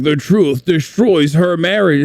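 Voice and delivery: big dramatic trailer-style announcer read. Retold or imitated. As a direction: boom it out like a Super Bowl announcer. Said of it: "the fucking Super Bowl announcer voice".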